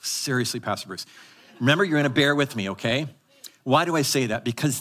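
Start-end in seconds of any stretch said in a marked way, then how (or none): 0.0-1.0 low, soft, exasperated sigh at the pastor; a weary, put-upon mutter of protest; mock groan. Congregation member groaning at the pastor. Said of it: "You're like".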